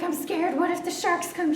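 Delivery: high, frightened whimper of a question; scared. Retold or imitated. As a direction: sound spooked by the sharks. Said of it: "So I was scared".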